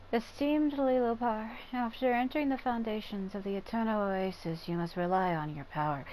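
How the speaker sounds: deep-voiced matriarch. Shown as a demonstration. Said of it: "like, a deep-sounding voice".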